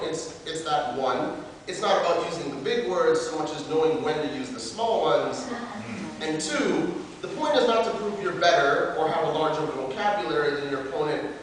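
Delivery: declaimed slam-poet letter; open letter performance. Acted. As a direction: address the makers formally, as a performed piece.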